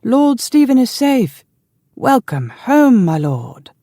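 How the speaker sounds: high, drawn-out jubilant call; joyful shout. A narrator's reading. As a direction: shout a happy welcome from the wall, slowly. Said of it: "his voice full of joy".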